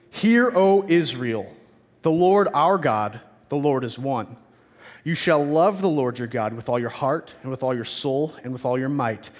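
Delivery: measured, reverent reading aloud; formal Bible reading, phrase by phrase; solemn scripture reading. Real, not acted. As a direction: read it out as holy scripture to a congregation. Reads the scripture passage aloud.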